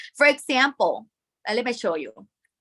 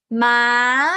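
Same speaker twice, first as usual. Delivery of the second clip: loud "Ma" held, then rising; level "Ma" with an upward lift at the end; high tone; 6 dB louder than usual. Shown as a demonstration. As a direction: hold "Ma" steady, then go up. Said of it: "Imitate my sound and hum".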